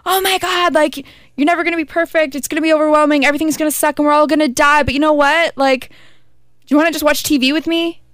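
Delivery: high, squeaky cartoon boy voice; Morty voice. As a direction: pitch up into a nervous teenage cartoon boy. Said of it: "And Morty goes".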